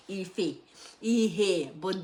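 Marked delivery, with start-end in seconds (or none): 0.1-0.6 "Ife" with an f in place of the h, softer, with a laugh; laughing Anambra "Ife", f in the middle. Shown as a demonstration. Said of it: "we say ife".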